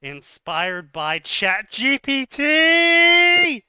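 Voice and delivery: high, drawn-out yell, last letter held long; mock triumphant shout. Reader mocking a writer's AI use, hammed-up shout. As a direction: belt it out like a hammed-up announcement.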